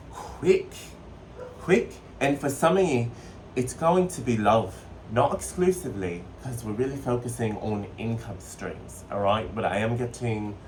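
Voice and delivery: put-on playful bastardized British accent. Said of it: "I'm gonna transition out of my accent".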